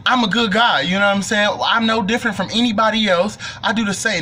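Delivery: playing the good guy loudly; mock earnest speech. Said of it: "little speech or whatever".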